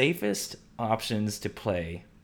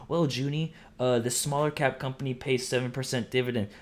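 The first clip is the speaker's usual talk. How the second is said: higher, nasal-free put-on listener voice; mock know-it-all listener; 4 semitones higher than usual. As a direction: play a smug listener objecting. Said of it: "be like".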